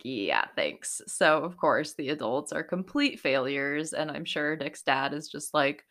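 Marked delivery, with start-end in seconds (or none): 0.0-1.0 much lower, flat mock thanks; a dry, unimpressed brush-off; deadpan sarcasm. Nick brushes off the unhelpful counselor with deadpan sarcasm. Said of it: "Nick's just like".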